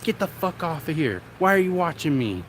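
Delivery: high mock rant; high-pitched mock telling-off; imitating the streamer. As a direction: squeal at the two viewers like her. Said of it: "she'll be like".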